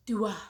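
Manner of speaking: "Dua" said carefully as DOO-ah, two clear syllables; brand's own pronunciation. Shown as a demonstration. To viewers, showing how the brand says its name: "Dua" as DOO-ah. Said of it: "That's how they like to say their name".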